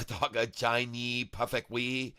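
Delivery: lightly hammed-up fake Chinese accent; put-on Chinese accent with broken grammar; mock Chinese accent. Streamer boasting of perfect Chinese, mock Chinese accent. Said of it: "I speak with such a good accent".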